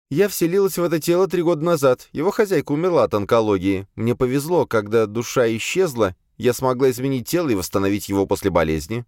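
high-pitched female character voice, matter-of-fact account; servant demoness recounting. A narrator's reading. Azalia begins her account to the exorcist, high servant voice. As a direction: raise the pitch well up for the demoness.

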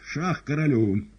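Шах королю slow, loud and insistent; repeated check. A narrator's reading. Woland repeats check, slow loud insistence. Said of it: "Повторяю".

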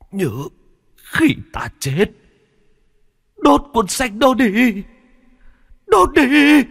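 high, slow strained rasp; dying words. Acted. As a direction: hiss out last commands with dying strength. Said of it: "rít lên những câu chăn chối sau cùng".

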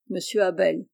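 usual speaking voice

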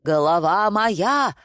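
drawn-out acted alarm; horrified yell. A narrator's reading. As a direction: cry out in dread, words stretched. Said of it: "в ужасе проорал Николай".

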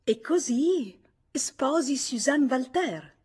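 high, loud, drawn-out accusing question; confronto a bruciapelo. A narrator's reading. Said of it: "gli aveva detto a bruciapelo". (domanda secca e accusatoria, a voce alta)

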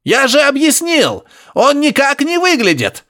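high, grunting irritated snap; annoyed grunting professor. Acted. Professor losing patience with Harry, high grunting. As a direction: bark it back at him, high and piggy. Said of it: "Барсуков явно тоже злился".

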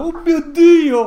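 slow, loud, high Oh my God; shocked and loud, drawn out; loud shocked gasp. Acted. Players react to crow spell.

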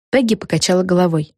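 plain reading voice

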